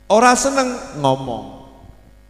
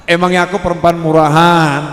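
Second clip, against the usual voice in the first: offended retort; 2 semitones higher, 8 dB louder than usual. Acted. Girl offended by sudden confession.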